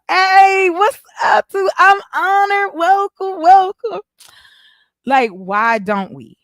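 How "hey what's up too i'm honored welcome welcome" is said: high, loud, bubbly hello; excited welcome. Real, not acted. Welcoming a guest into the stream, high and loud. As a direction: throw open the door for a guest.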